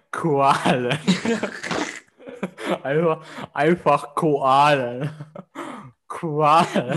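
Qualen comes out as Koalen around a cork. Real, not acted. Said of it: "Sag bitte noch mal Qualen".

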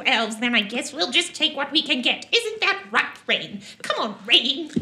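lightly voiced pushy gnome, some laughter; brash gnome woman. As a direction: needle and cajole them as a little gnome.

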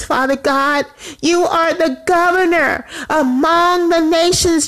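prayer rising into high-pitched, ringing proclamation; impassioned high-pitched praying; fervent praise. Real, not acted. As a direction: lift the voice high and proclaim it to God.

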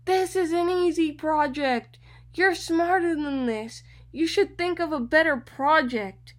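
mock the teacher talking down to a student; nasty teacher. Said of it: "she was really nasty with me".

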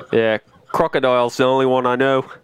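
put-on light Aussie accent; a touch of Crocodile Dundee; Australian accent. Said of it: "Just talk like that?".

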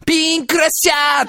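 hammed-up hero shout. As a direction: yell the finishing move like an anime hero. Manga hero's special move. (アニメのヒーローが必殺技を叫ぶ)

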